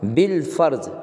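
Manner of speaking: "بالفرض" said bil-farz; silent alif, sounded lam. Shown as a demonstration. Teacher showing the next example, "بالفرض" as bil-farz. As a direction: join the B to a clear L in "بالفرض". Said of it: "تو الف یہاں بھی تلفظ میں نہیں آ رہا".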